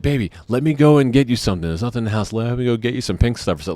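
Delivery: lightly voiced fiance. Fiance offering to fetch medicine.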